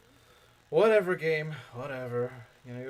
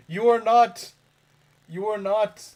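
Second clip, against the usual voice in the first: loud, high-pitched meme quote; mock rebuke; 7 semitones higher, 10 dB louder, slower than usual. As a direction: belt out a mock scolding. Quoting a meme's indignant rebuke.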